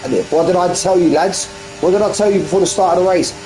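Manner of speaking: keen motorsport commentator; live race commentary. Real, not acted. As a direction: build the chase for the viewers.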